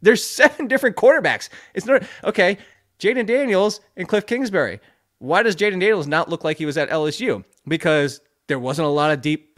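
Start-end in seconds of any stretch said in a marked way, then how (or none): 0.0-6.7 fired-up rant. Real, not acted. Ranting about Notre Dame quarterbacks.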